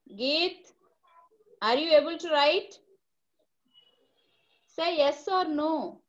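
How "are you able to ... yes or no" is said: slow question. Shown as a demonstration. Teacher asks a child online.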